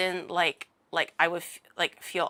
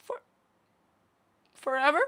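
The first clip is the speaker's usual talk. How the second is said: mock sad fan; 4 semitones higher than usual. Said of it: "he looked so sad".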